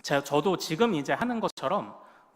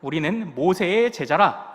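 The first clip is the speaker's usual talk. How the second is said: louder, mildly indignant scripture reading; huffy; 6 dB louder than usual. Acted. Pharisees retorting to the healed man, mildly huffy. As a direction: read it as an affronted declaration. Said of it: "발끈하면서 뭐라고".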